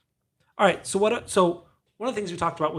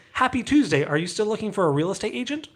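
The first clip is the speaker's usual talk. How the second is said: higher-pitched parody of an agent's text; mock sales greeting; 6 semitones higher than usual. Agent texting a lead, mock sales pitch. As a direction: imitate a canned sales message, pitched up.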